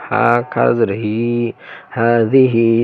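হাদিহি with the long vowels held; drawn-out vowels. Shown as a demonstration. Teacher shows learners how madd is read, drawn out in হাদিহি. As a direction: stretch the vowels in হাদিহি evenly. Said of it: "তখন আপনাকে এই টেনে পড়তে হবে".

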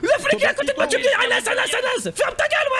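raconte en riant, voix aiguë et forte; en riant aux éclats. Real, not acted. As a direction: rit en imitant le copain. Laughing retelling, high loud. (en riant, voix aiguë)

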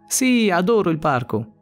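excited exclamation. Acted. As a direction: blurt it out with mild excitement. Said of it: "esclamò Luca". (esclamazione entusiasta da bambino)

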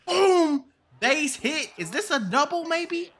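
high, loud burst at the hit; excited shout. Real, not acted. Gamer hitting a base hit, excited high shout. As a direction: shout it as the bat connects.

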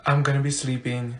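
low, soft grumble; muttered aside. Acted. Student muttering about weekend plans, low and soft. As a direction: say it low under your breath.

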